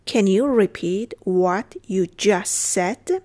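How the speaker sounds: slow, word by word for learners; careful, slow language-lesson delivery; slow model repeat. Shown as a demonstration. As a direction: spell out each word at a teaching pace. Teacher repeats phrase slowly.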